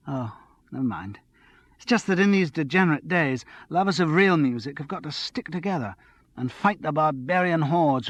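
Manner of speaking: a hint of a breathless, excited girl; excited tipsy young woman. Andrea on real music.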